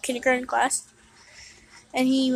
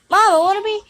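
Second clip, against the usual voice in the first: put-on high, loud kid voice; whiny little kid begging; little brother voice; 7 semitones higher, 8 dB louder than usual. Kid brother voiced asking mom.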